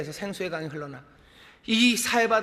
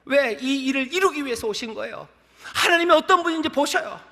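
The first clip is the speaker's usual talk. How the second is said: raised, high-pitched sermon delivery; impassioned preaching; 8 semitones higher, 5 dB louder than usual. Real, not acted. Preacher urging the congregation to hear the cry, impassioned. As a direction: press the point home like a fervent preacher.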